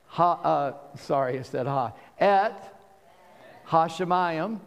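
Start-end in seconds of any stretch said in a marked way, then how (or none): 2.2-4.6 Et and Hashemayim said apart, carefully sounded; over enunciating. Shown as a demonstration. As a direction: Hashemayim enunciated slowly, syllable by syllable. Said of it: "one word at a time".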